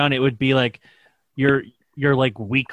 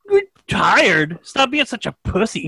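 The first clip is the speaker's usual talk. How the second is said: mock drill sergeant; 5 semitones higher, slower than usual. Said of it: "he'd be like".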